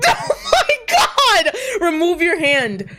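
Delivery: high, loud, slow-stretched protest; outraged shout. Acted. Friend slapped on the shoulder, shouting to remove the hand. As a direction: yell it out, horrified at being touched.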